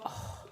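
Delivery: strained grunt while lifting; effort grunt. Real, not acted. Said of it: "Sorry about my grunting and groaning".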